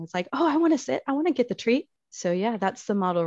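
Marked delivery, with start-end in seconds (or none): 0.3-1.9 much higher, gushing puppy voice; be a dog begging for a treat; excited dog. Retold or imitated. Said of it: "Dogs get excited about everything".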